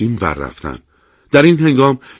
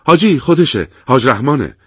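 happily; 3 semitones higher than usual. Acted. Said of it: "با خوشحالی گفت".

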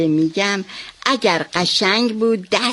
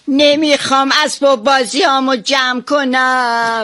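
put-on whiny child; 3 semitones higher than usual. Shown as a demonstration. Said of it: "حالا بذار من بگم".

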